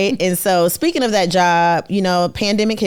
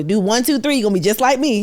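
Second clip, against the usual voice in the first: a light mock of a slick speaker, higher and quick; conference speaker; 3 semitones higher, faster than usual. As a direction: count it off like a seminar pitch. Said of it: "conferences that tell people".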